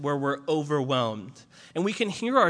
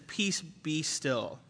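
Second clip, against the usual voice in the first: softer, slow, commanding calm; 6 dB quieter, much slower than usual. Retold or imitated. Jesus rebuking the wind and waves, soft and slow. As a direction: still the sea with a hush.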